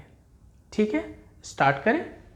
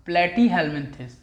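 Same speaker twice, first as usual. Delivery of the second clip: slow enunciation; much slower than usual. Shown as a demonstration. Teacher drills hard name.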